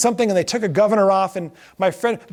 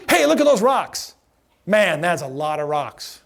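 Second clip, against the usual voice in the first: deadpan tour guide spiel, slower at the end; skipper joke delivery; 3 semitones lower than usual. Shown as a demonstration. Joke teller performing his skipper line, deadpan. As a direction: pitch it like a boat skipper. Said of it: "So here's my best joke".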